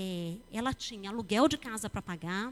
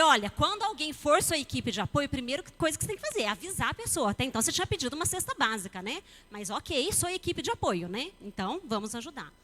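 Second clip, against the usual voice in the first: scolding; 2 semitones higher, 4 dB louder than usual. Retold or imitated.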